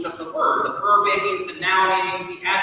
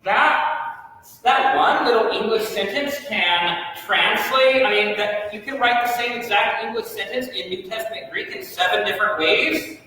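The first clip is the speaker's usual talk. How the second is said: mock amazed student. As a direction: gasp it out as the shocked class. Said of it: "and you're thinking".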